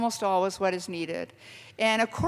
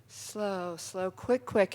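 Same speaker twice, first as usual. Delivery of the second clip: counting the steps softly; 2 semitones lower, 6 dB quieter, much slower than usual. Shown as a demonstration. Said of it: "counting dance steps".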